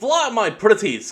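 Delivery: high, slow witch command; wicked witch voice. Acted. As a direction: call the monkeys like a wicked witch. Witch commands her flying monkeys.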